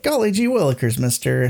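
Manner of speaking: gee-whiz schoolboy act; wholesome 1950s kid. Retold or imitated. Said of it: "putting on an act".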